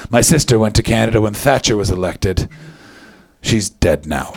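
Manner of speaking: hint of a grim northerner, pitch dropping low; mock grim reply. Acting northerners' grim sister answer.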